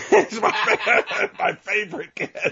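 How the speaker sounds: laughing through the words. Real, not acted. Host introducing his favorite guest, laughing. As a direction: giggle while introducing.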